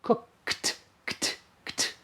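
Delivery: cooked with a soft clipped kt; cooked, kt unvoiced; kt ending. Shown as a demonstration. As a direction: breathe the kt. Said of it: "So the past is cooked".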